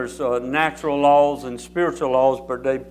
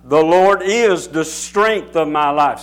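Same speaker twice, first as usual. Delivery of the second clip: stronger, louder; 5 dB louder, slower than usual. Shown as a demonstration. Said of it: "I put a stronger deposit".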